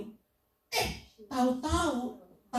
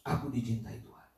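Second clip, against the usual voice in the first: softly self-affirming; 12 semitones lower, 6 dB quieter than usual. Shown as a demonstration. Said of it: "berkatalah-katalah kepada dirimu".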